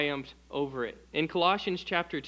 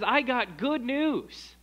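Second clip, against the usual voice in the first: slow, higher, lifted good news; joyful announcing; 5 semitones higher, much slower than usual. Retold or imitated. Preacher voices someone bringing good news, slow and bright. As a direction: savour each word of the good news. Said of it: "But when someone says".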